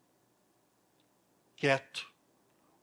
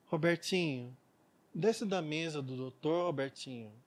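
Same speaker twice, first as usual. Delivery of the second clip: passive mother; 5 dB quieter than usual. Retold or imitated. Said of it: "essa mãe era aquela mãe passiva".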